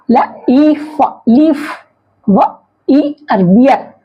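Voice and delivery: "लीफ" as "ल", long "ई", "फ", then joined; sounding out EA. Shown as a demonstration. Teacher showing long E, "लीफ" sounded out part by part. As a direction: break "लीफ" into its sounds before blending. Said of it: "इसका उच्चारण क्या होगा".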